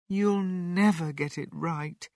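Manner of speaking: high, mildly sorrowful woman's line; a touch of gentle despair; sad. A narrator's reading. Missus Cranky giving up on the medicine, saying it sadly. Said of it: "Missus Cranky said sadly".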